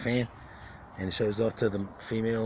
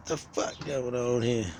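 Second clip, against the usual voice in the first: bewildered bird voice; 4 semitones higher, slower than usual. Pretend. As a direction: drag out the outrage like a puzzled bird. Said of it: "and they're like".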